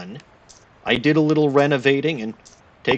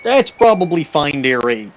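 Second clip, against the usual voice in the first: mock Canadian accent. Streamer narrates the game to chat in a jokey Canadian accent. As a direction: play it folksy Canadian, tacking on there, eh. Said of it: "turned me all Canadian there".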